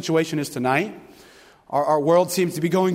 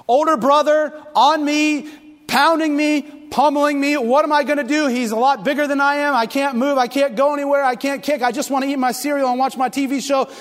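reliving distress; 9 semitones higher, 3 dB louder than usual. Retold or imitated. Reliving being pinned down.

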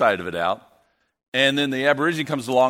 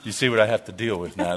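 ordinary talk

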